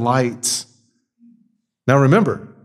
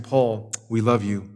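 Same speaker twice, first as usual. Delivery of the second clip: soft, tender message from the church; voicing the church; 4 semitones lower, 6 dB quieter than usual. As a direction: speak softly, like a loving letter to a prisoner. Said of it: "a whole church is saying".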